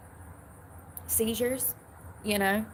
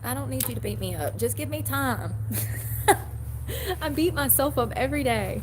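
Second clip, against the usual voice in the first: laughing; 8 semitones higher than usual. Real, not acted. Laughing about punching her face.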